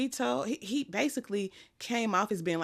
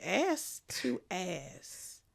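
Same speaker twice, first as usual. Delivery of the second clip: puzzled repeat; 4 dB quieter, much slower than usual. Retold or imitated. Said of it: "I said".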